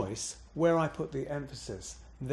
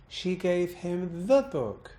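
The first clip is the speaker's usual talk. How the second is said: slow, "the" pitched up and leaned on; stress on THE; 3 semitones higher than usual. Shown as a demonstration. Teacher shifting the meaning, bouncing on the. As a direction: bounce on "the", then fall on "book". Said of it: "I bounced on the".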